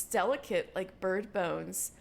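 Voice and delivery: ordinary delivery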